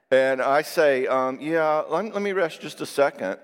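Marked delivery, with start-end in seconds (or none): 1.4-3.4 weary plea. Retold or imitated. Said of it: "as if to say".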